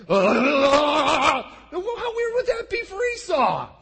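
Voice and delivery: put-on high, loud, slow quavering old man; trembling old father. Preacher voicing trembling Isaac to Esau, slow and quavering. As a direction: stretch it out like a shaking old man.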